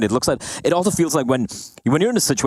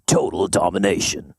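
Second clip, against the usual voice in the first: seductive voice; 4 semitones lower than usual. Shown as a demonstration. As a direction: say it low and seductive. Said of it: "You wanna do that in your seductive voice?".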